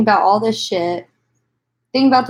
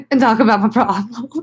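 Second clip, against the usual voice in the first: laughing through tears. Real, not acted. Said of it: "smoke and cry".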